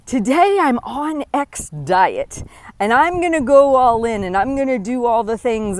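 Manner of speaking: a hint of someone gung-ho about a new diet; mock eager dieter. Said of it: "what you've been doing, which is the".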